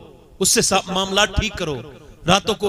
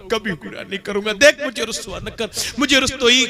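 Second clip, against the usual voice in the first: tearful plea; 3 semitones lower than usual. Acted. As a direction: pray as if in tears. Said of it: "फिर तो फूट के रोया".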